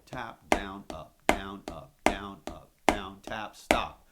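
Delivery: calling strokes loudly over the drums; shouted stroke names over the drumming; called strokes. Shown as a demonstration. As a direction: bark each stroke name as you play. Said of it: "we're gonna go".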